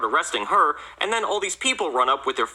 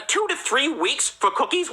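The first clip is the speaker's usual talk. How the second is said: high, drawn-out disbelieving question; incredulous indignation; 10 semitones higher, slower than usual. Acted. Cop ranting about the Girl Scouts' delay, high disbelief. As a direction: echo the outrageous wait, slowly and high.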